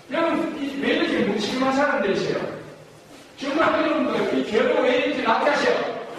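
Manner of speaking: high-pitched mock blame; exasperated-style accusation for a class; accusing reproach. Shown as a demonstration. Models distrustful blaming remarks.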